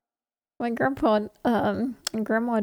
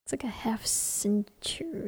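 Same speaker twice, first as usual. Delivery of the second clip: whispering; 8 dB quieter, slower than usual. Real, not acted. Joking aside.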